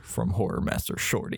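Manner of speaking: hushed, ominous trailer announcer; breathy horror trailer read. Shown as a demonstration. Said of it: "horror trailer voice".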